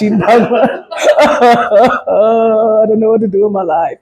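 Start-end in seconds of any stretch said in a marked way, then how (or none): 1.2-4.0 slow, hammed-up sob on the couch; mock crying. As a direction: whimper it slowly, playing at crying. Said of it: "crying on the couch".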